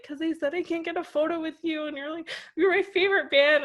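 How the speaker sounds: high, tearful mock sobbing; retold tearful outburst. Crying fan telling the drummer why, high and tearful. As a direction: lightly imitate a fan crying over a lost photo. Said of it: "I was, like, freaking out".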